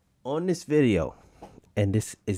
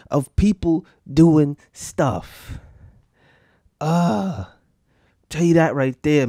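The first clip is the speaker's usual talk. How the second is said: high, slow, wheezing after laughing; laugh-crying; 7 semitones higher, 4 dB louder, much slower than usual. Real, not acted. Host recovering from the clip, breathless laugh-crying. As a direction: catch your breath between laughs. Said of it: "give me a second to get myself together".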